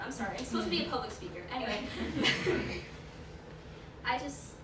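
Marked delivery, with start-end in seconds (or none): 1.8-4.0 higher, breath-only laugh; flustered laugh. Real, not acted. Apologizing as a public speaker, flustered laugh. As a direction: laugh off the slip.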